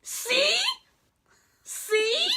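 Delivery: high, loud "see?"; real vindicated excitement; triumphant. Real, not acted. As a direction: crow that you were right. Vindicated by the credit.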